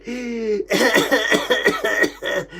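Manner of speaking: long run of laughing coughs; demonstrated coughing fit. Shown as a demonstration. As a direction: cough repeatedly through laughter. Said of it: "I start coughing like that".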